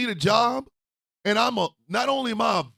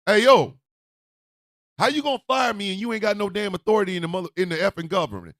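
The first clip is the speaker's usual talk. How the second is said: loud, fast street-style confrontation; mock confrontation, loud and quick; imitating a defiant worker; 4 dB louder, faster than usual. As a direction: talk fast and loud like a fed-up worker calling someone out. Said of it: "federal workers were out here going".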